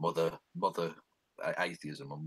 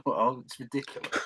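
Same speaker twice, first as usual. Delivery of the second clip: laughs it off, higher and louder; a real disbelieving laugh through the words; scoffing laugh at something absurd; 6 semitones higher, 4 dB louder than usual. Real, not acted.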